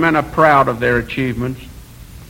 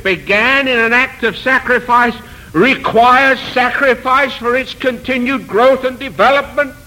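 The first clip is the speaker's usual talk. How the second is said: raised, insistent rhetorical questioning; fervent preaching; 5 semitones higher than usual. Real, not acted. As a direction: press each question on the congregation.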